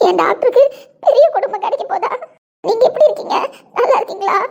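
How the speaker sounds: loud, high, tearful laughing talk; overflowing with happy tears; talking to the babies through joyful sobs; laughing and crying with joy. Acted. Mother talks to unborn triplets.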